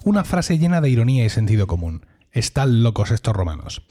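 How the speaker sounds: scripted announcer read, stepping down in pitch to the title; podcast intro. Acted. Host presents his select band of listeners, mock-epic intro. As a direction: declaim the mock-epic intro, settling onto the show's name. Reads the scripted show opening.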